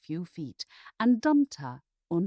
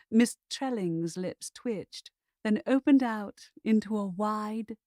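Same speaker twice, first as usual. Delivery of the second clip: plain reading voice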